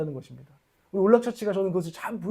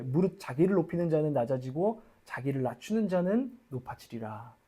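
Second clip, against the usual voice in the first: scripture reading; 3 semitones lower, 4 dB quieter than usual. Shown as a demonstration. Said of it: "reads verse fourteen".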